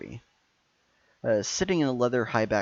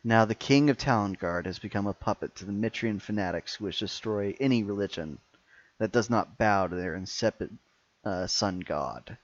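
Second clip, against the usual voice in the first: louder, grand villain speech; booming echoing villain monologue; 3 dB louder than usual. Acted.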